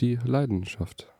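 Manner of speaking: slow, soft, mock-profound; slow and hushed, like a deep saying.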